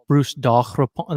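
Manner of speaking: Daurepan said the French way, throaty r and nasal final vowel; French pronunciation. Shown as a demonstration. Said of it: "Like, I'll say that".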